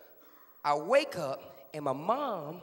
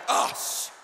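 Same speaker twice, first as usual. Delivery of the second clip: sharp voiceless shush; urgent hushing; 5 dB louder than usual. Acted. Big brother shushes little one at door, whispering. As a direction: hush him in a forceful whisper.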